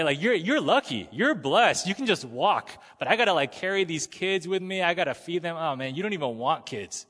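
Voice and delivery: mock sweet bragging to Hannah; imitating Peninnah. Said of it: "She was probably like".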